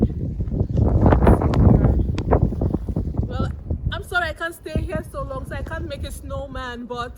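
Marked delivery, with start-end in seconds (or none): 0.0-3.3 very slow strained groan; drawn-out strained groan. Real, not acted. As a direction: strain and stretch the words out. Straining at a hard snowball.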